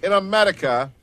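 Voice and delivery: put-on stereotypical German accent. Host joining caller's imitation of the coach, stereotypical German accent. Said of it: "stereotypical German accent".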